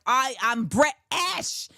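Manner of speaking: slow, hammed-up British accent; exaggerated British accent. Imitating a rapper's song, exaggerated British accent. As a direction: declare it in a mock British accent. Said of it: "a song that is like".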